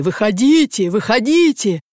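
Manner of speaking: repeated high-pitched summons; urgent calling. A narrator's reading. Vasily calling Anna from the cart, excited cry. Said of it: "кричал Василий".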